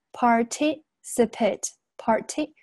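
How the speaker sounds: "participate" broken up slowly, "parti-" lifted. Shown as a demonstration. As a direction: lift "parti-" in "participate", spacing the syllables. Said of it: "这个地方要升上去哈".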